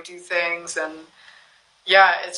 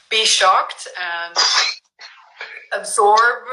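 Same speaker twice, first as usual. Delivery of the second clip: breathy whisper; slower than usual. Real, not acted. Describing taking a shock in.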